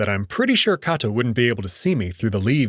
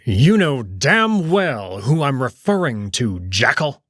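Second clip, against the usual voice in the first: angry; 3 semitones higher than usual. Acted. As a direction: growl the threat at him. Kato snaps at jackal.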